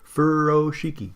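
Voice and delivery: Furoshiki, stretched start, crisp K; say-along pronunciation. Shown as a demonstration. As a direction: lead a chant of Furoshiki, clear "shee-kee". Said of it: "Let's say it together".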